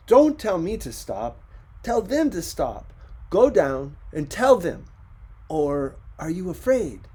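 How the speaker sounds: loud, high, heated; angry retort. Acted. Ricardo snapping back at his wife, angry and loud. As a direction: throw the challenge at her hard.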